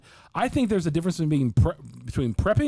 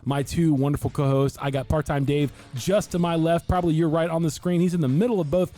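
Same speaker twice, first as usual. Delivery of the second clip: podcast host intro; slower than usual. Acted.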